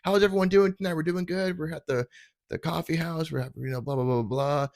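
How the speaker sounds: a hint of a cheesy show host. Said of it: "and he's like".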